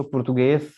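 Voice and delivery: पुर्तगीज with the final s said as sh; Portuguese pronunciation demo; Portuguese ending in sh. Shown as a demonstration. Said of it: "लिखा है हमने लेकिन पढ़ेंगे".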